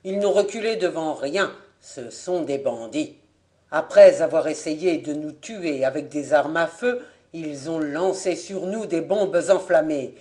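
steady, earnest explorer recounting an attack; Voirin explaining. Acted. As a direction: lay out the story firmly to the officials. Voirin explains their situation.

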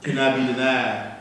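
seduce the listener with every line; sweet nothings. Acted. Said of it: "I'm gonna do a poem".

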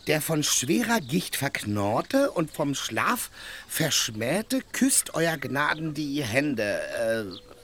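slowly reciting a letter from memory; groping for the words of the letter; halting recital of a half-remembered letter. Acted. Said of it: "ging es ... so weiter".

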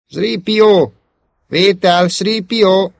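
high, loud radio call; urgent calling. A narrator's reading. Luke calling Sripió on the transceiver, urgent. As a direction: call out pleadingly for a reply. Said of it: "könyörgő hangtól".

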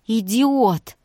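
loud, high angry outburst; furious shout. A narrator's reading. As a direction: hurl the insult at him. Vika throws pillow, furious. (яростный выкрик)

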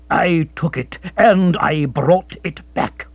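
firm and slow, steady; firm resolute declaration; firm, resonant. Acted. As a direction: state it like a man of honour. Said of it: "in a firm, resonant voice".

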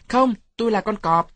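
put-on high, loud child's yell; loud shout. A narrator's reading. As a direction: shout it out like a kid playing tiger. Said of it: "Tôi hét lớn". (giọng trẻ con hét lớn, cao)

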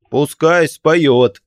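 high, loud, slow demand; loud ghoulish call; cry out. A narrator's reading. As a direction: shout the demand gleefully. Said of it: "вскрикнул ещё какой-то мертвец".

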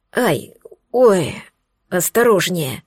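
groaning ouch, then a wince; pained groan. Acted. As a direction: groan as she squeezes him. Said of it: "простонал Алекс". (со стоном)

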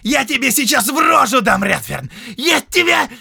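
loud, high furious threat; threatening shout. Acted. Count threatening to hit the prisoner, loud shout. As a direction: lunge at him mid-word.

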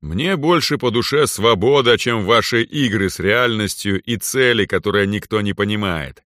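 proud overlord speaking down; arrogant lord. Acted. Lord defends freedom.

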